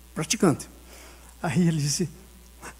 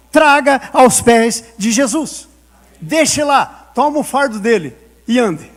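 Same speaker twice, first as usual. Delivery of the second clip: slow preached exhortation; 3 semitones higher, 6 dB louder, slower than usual. Acted. Exortação final da pregação.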